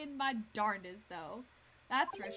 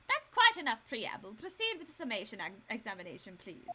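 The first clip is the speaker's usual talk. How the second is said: a louder, stern judge; 3 dB louder than usual. Shown as a demonstration. Judge telling the court to proceed, stern and louder. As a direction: bring the court to order. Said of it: "try that one more time in the correct accent".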